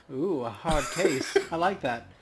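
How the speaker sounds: lightly voiced flirty elf bartender; teasing bartender. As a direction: tease the hard case. Bartender teases customer.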